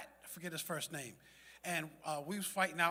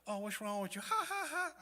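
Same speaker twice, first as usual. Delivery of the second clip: imitating a jeering onlooker with a high fake "ha, ha, ha"; mock a stranger laughing at you, pitch shooting way up on the laugh; 6 semitones higher, 5 dB louder than usual. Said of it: "somebody could laugh at me".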